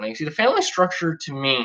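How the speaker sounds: voice breaking and cracking mid-sentence. Speaker explaining personal beliefs, voice cracking. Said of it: "my voice just cracked".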